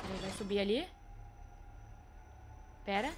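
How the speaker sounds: ordinary talk, nothing marked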